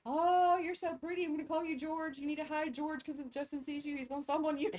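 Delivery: high sweet voice to a spider; baby talk. Retold or imitated. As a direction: coo at it like a pet. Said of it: "And I was like".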